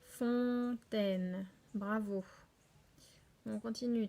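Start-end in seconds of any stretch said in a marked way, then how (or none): 0.0-1.5 "Fontaine" slowly stretched, "on" held long; teacher's slow, joined syllables in "Fontaine"; drawn-out syllables. Shown as a demonstration. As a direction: linger on the "on" of "Fontaine". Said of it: "qui fait on".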